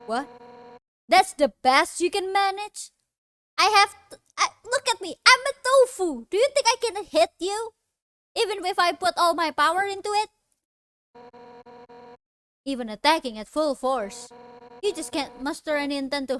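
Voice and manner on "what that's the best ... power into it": mocking Undyne. Undyne voiced mocking weak attack.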